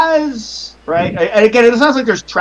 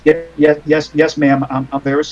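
lightly voiced driver, meek and apologetic; a hint of a cowed old man backing down; shocked cab driver; 5 semitones lower, 3 dB quieter than usual. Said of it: "he's shocked".

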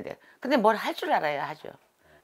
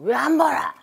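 scolding shout; 9 semitones higher, 9 dB louder, slower than usual. Retold or imitated. Angry priest scolding the new shaman.

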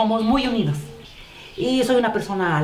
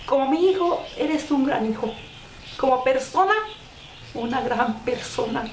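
tender message to son; 3 semitones higher than usual. Real, not acted. Mother speaks lovingly to her son.

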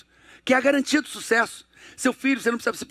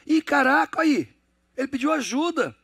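put-on excited child reaction; 4 semitones higher than usual. Child reacting, voiced by father.

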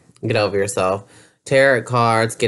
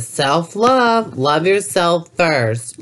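mocking spiritual believer; 4 semitones higher, slower than usual.

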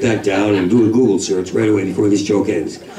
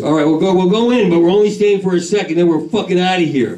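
air's voice; 6 semitones higher than usual. Acted. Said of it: "the air goes".

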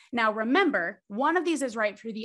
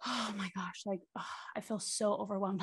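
overwhelmed; 3 semitones lower, 9 dB quieter than usual. Retold or imitated. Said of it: "if somebody's like".

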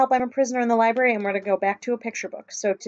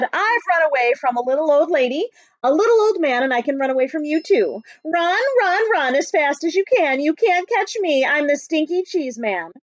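higher, cocky sing-song taunt of a runaway cheese man; taunting call; 4 semitones higher, 4 dB louder than usual. Acted. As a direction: call it out teasing, slowing on the last lines. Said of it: "The stinky cheese man said".

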